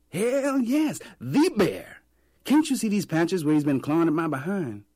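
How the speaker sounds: very high, loud mock-outraged vendor; joking vendor. A narrator's reading. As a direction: play up the bear joke. Vendor shows his patches.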